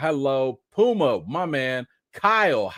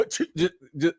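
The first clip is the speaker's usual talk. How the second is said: mock allergy sneezing fit; imitated sneezing; 5 semitones higher than usual. Husband imitating his wife's allergies, mock sneezing fit. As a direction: splutter out a string of pretend sneezes. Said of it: "she is sneezing up a storm".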